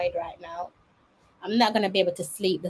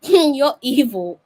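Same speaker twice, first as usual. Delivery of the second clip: laughing and slow, louder; amused laugh through the words; 5 semitones higher, 9 dB louder, slower than usual. Real, not acted. Friend teasing her about killing spiders, laughing.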